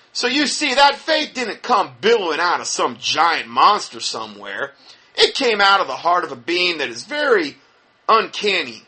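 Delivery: a touch of mock Texas twang; Kenneth Copeland. Critic quoting a televangelist's audio, light Texas accent imitation. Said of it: "like, real Texas".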